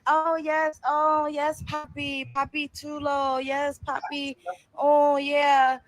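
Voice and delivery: hammed-up "yes, papi" eagerness; mock gushing woman. Voices woman gushing at man's compliment.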